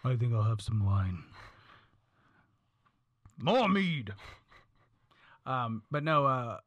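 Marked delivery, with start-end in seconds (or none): 0.0-4.1 viking. Pretend. Drinking at the table, viking feel.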